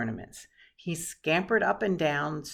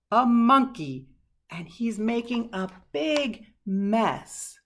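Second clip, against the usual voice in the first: shocked discovery; 4 semitones higher, 8 dB louder, slower than usual. A narrator's reading. Nurse discovers the mess.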